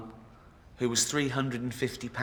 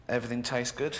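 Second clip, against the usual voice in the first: mock lazy excuse; 4 dB quieter, faster than usual. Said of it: "She went".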